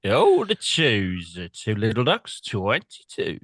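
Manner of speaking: slow drawn-out bingo call; bingo caller. Retold or imitated. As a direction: call the number like a bingo hall. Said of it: "for a few weeks as a bingo caller".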